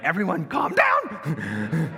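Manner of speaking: slow, loud, high yell for calm; frantic shout. Retold or imitated. Dad shouting at the panicking family during a bath, slow loud yell. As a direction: bellow at the whole bathroom to calm down.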